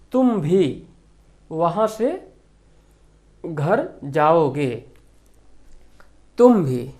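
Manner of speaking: teacher slowly stressing तुम भी in the example sentence. Shown as a demonstration. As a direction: land hard on तुम भी. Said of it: "उसमें जोर दिया जाए".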